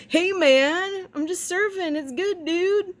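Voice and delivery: hammed-up beach bum drawl; surfer dude. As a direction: play Jesus as a chill surfer. Mock surfer-dude Jesus voice.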